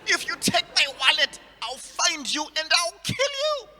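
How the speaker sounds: trying to scare the mugger, failing with laughter; fake tough threat. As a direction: try to sound tough but crack up. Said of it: "I'm like".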